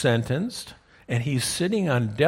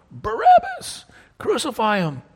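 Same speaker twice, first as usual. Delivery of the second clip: very high, loud mob yell; crowd yelling; 10 semitones higher, 4 dB louder than usual. Acted. Preacher voicing the mob Barabbas hears, a very high loud yell. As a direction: scream it as the crowd outside.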